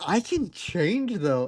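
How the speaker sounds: lightly whiny plea, stretched slowly; begging. Retold or imitated. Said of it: "like, begging, like, pleading".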